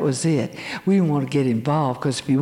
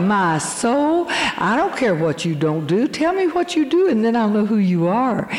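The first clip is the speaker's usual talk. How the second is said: a fed-up inner cry, rising sharply; exasperated inner voice; 5 semitones higher than usual. Retold or imitated. She hears the girl's list and thinks, exasperated. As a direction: pitch leaping up on "Tell me what you do". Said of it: "and I thought".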